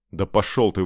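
ordinary delivery, nothing marked

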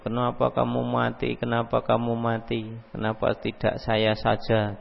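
soft, monotone imitation of a screaming mourner; mock wailing lament. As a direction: chant the grief half-heartedly, without raising the volume. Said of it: "teriak-teriak gitu".

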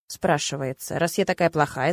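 plain reading voice

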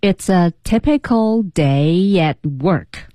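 slow practice sentence, evenly drawn out; slow read-through. Shown as a demonstration. Co-host repeating the whole sentence, slowly. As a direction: read slowly so learners can follow. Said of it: "整个句子我们来读一下".

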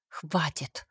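a sharp whispered stop. A narrator's reading. Aisha whispering at Kemal to stop. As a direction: hiss the word out, fed up. Woman pushes away her pursuer.

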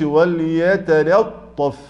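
وليتلطف very slow with the thinning forced too far; overdone thinning. Shown as a demonstration. Teacher mocking forced, exaggerated recitation. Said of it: "هذا تعسف".

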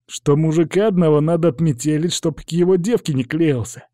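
a hint of a young thug reporting; questioned lad. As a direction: recount it as a cornered young hooligan. Boy retells the order under questioning.

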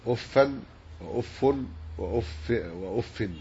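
أف slowly given nunated endings, uffan, uffun, uffin; tanween endings. Shown as a demonstration. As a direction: sound the final n on each أف. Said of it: "وبالتنوين".

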